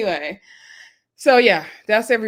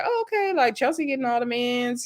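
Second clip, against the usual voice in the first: mock surprise; 4 semitones higher, 4 dB quieter than usual. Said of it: "I was like".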